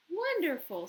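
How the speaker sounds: lightly voiced teacher cheering him on. A narrator's reading. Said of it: "said Miss Potosa".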